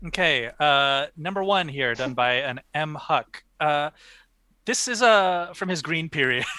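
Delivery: languid pretentious art snob; art critic voice. Pretend. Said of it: "in your best, uh, art critic voice".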